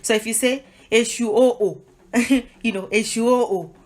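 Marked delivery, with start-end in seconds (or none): 0.9-1.8 "Eshu oh, oh" with a separate falling last "oh"; emphatic call. Shown as a demonstration. Teacher showing praise or hailing someone, emphatic call. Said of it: "is how it would sound". 2.9-3.7 "Eshu oh, oh" with a separate falling last "oh"; emphatic call. Shown as a demonstration. Teacher showing praise or hailing someone, emphatic call. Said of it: "is how it would sound".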